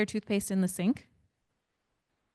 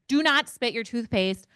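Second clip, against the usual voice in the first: slow, louder stern warning; firm slow telling-off at the sink; stern parent; 3 semitones higher, 4 dB louder than usual. Retold or imitated. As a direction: lay down the rule to the kids. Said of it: "I'm like".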